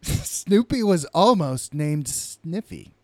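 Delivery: slow, loud hammed-up announcer; bad acting. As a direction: drag it out like a dramatic reveal. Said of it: "deliver it like it's interesting".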